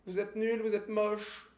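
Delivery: dopey cartoon bellow. Mocking stranger in broken French.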